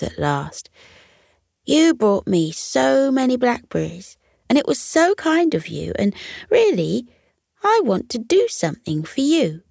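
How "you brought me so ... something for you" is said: put-on a young fox's higher voice, grateful and eager; earnest fox, raised pitch. Fox thanking the squirrel who brought him berries, eager and higher.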